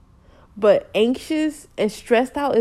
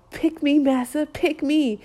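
higher-pitched mock plea to a master; a hint of grovelling, pitched up; mock begging; 5 semitones higher than usual. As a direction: lightly act out a servile job seeker pleading. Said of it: "You're here begging".

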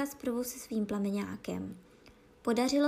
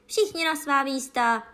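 loud, high thundering order; hromový hlas; 4 semitones higher, 7 dB louder than usual. A narrator's reading. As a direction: thunder it out to the whole crowd. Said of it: "zvolala královna hromovým hlasem". (hromový, hlasitý povel)

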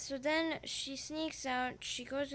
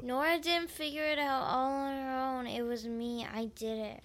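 speaking up; 5 dB louder than usual. Real, not acted. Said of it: "but they can't hear you".

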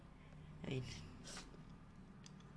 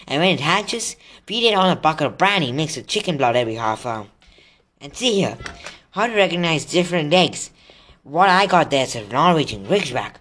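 lightly voiced Hagrid, louder and eager; Hagrid, enthusiastic; 2 semitones higher, 5 dB louder than usual. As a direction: share dragon lore keenly. Reads Hagrid's excited dialogue.

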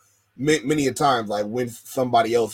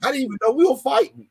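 excited quote; 4 dB louder than usual. Retold or imitated. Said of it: "They were like".

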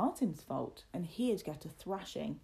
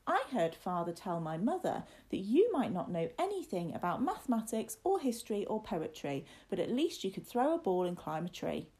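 boastful little master, lively pitch swings; lightly voiced superior boy; haughty young William. Young master puts down his companion Martin, lightly voiced haughty boy.

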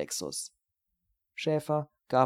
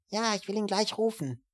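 much higher voiced woman answering; woman on the phone; 10 semitones higher than usual. Housewife answering Steiner's call, higher woman's voice. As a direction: lift into a woman's voice, helpful. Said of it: "Eine Frau meldete sich".

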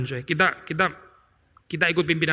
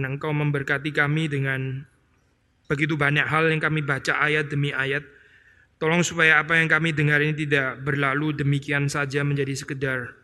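closing prayer; 3 semitones lower than usual. Acted.

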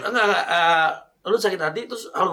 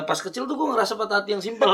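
breaking into laughter mid-sentence; laughing already; 3 semitones higher than usual. Real, not acted. Storyteller cracking up before the heartbreak story begins, laughing. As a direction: start the line, then crack up. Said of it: "belum cerita udah ketawa".

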